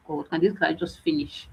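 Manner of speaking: a sigh, then a quiet, fed-up mutter; bored exasperation. Retold or imitated. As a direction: sound worn out by a dull class. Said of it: "but she's very boring".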